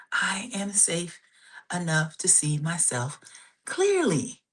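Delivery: slow, deliberate affirmation; said really slowly. Shown as a demonstration. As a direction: let each word land, slowly. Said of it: "say this really slowly".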